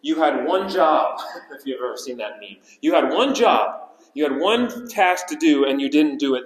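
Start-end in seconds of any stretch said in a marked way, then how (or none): 0.0-1.2 mock furious rebuke. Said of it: "They're furious with these officers". 2.8-6.5 hammed-up angry reproach; mock furious rebuke. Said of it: "They're furious with these officers".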